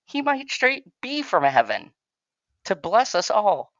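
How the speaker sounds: high, emphatic mock-serious rebuttal; playful insistence. Real, not acted. Host defending Zac Efron to Bitchy, playfully over-insistent. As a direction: argue it loudly and high, like a devoted fan.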